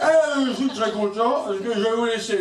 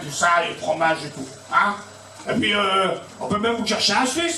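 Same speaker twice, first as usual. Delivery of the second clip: Coluche impression. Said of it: "Monsieur Coluche".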